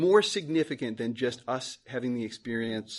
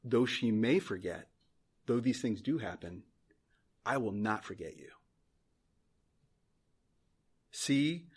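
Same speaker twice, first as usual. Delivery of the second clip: low, soft, gentle reassurance; God reassuring His people; 4 semitones lower, 4 dB quieter than usual. Acted. Preacher voicing the Lord to fearful people, low tender reassurance. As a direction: promise it softly, in a lowered voice. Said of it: "the Lord speaks and says this".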